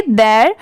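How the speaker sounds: देयर with a single open vowel, "dair"; quick one-beat "their". Shown as a demonstration. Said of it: "ये speed में पढ़ेंगे".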